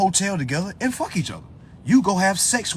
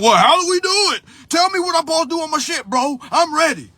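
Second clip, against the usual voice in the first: high-pitched imitation of an impatient newbie; mock their eagerness, high and quick; pushy, over-keen mock voice; eager follower; 11 semitones higher, 5 dB louder than usual. Mimics eager would-be followers asking.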